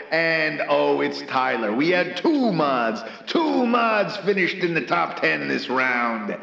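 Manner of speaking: lively play-by-play call, names rolled out with relish; race announcer. Acted. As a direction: announce the finishers like a radio sportscaster.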